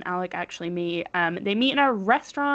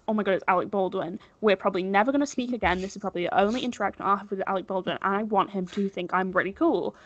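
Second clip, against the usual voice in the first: panicked inner voice; faster than usual. Retold or imitated. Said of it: "she's panicking and thinks".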